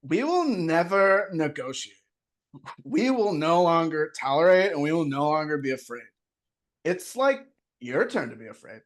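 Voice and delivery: slow California surfer drawl; a slowed, laid-back California take on the speech; surfer-ish Kardashian accent. Acted. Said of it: "more surfer than Kardashian".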